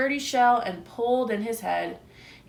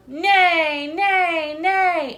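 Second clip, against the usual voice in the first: louder, higher bellowed neighs; horse neigh; 7 semitones higher, 7 dB louder, much slower than usual. A narrator's reading. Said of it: "The horse bellowed".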